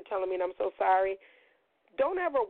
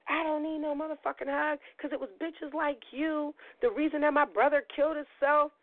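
put-on angry young woman; 5 semitones higher than usual. Angry stranger yelling at her.

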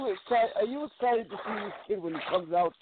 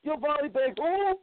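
mock surprise; 6 semitones higher, slower than usual. Mock outrage during a promo.

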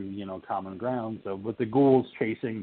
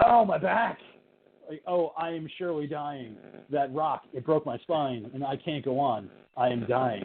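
mock dying heroine; 3 semitones higher than usual. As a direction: overplay a melodramatic death scene, mocking it. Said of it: "And she's like".

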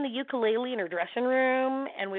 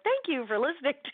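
slightly higher audiobook sign-off; commercial sign-off; 6 semitones higher than usual. Acted. Narrator plugging the book at the end, commercial read. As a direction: read it like a little closing commercial. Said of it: "You do a little commercial".

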